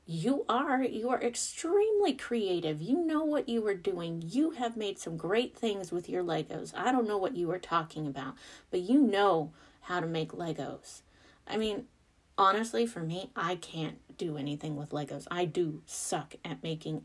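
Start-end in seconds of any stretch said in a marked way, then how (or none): 0.1-11.0 reassuring mom. Retold or imitated. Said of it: "And I was like".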